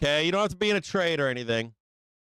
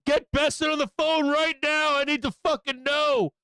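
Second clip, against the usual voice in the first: mock panicked scream; 8 semitones higher than usual.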